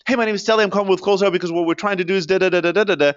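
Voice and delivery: fast, high and loud gabbled pitch; rushed sales opener. Shown as a demonstration. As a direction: rattle off the cold-call script way too fast. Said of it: "people speak too fast, too soon".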